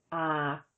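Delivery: ah held level in the middle of the voice; ah, steady mid tone. Shown as a demonstration. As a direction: say ah flat at mid pitch. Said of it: "is mid, as in".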